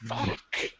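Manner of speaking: slow, drawn-out laughing "What the fuck?"; laughing disbelief. Real, not acted. Reacting to Santa in the episode, slow laughing disbelief. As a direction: stretch it out slowly while cracking up.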